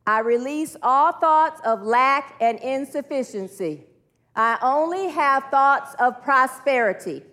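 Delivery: slow, deliberate group-led affirmation; measured declaration, leaning on key words; leading affirmations. Acted. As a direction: declare it slowly for a room to repeat.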